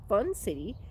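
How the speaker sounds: ordinary delivery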